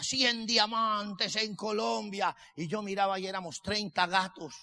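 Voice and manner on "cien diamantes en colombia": Mauricio. Retold or imitated. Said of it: "llegaba Mauricio y decía".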